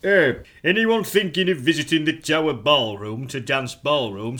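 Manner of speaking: put-on reading it in a northern English accent; broad northern accent, aggrieved reviewer. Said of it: "in a very northern accent".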